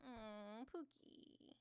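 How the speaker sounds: soft unvoiced coo of a pet name; breathy coo. Streamer softly coaxing a shy viewer, whispered pet name. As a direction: coo it under your breath.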